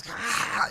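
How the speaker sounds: mild mock scream. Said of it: "starts screaming".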